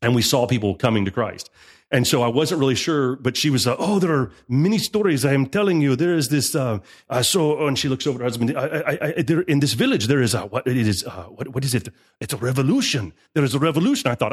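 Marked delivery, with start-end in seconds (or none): 3.8-14.1 lightly voiced halting broken English; a hint of her searching broken English. Wife struggles for words in mild broken English. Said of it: "she was very broken English".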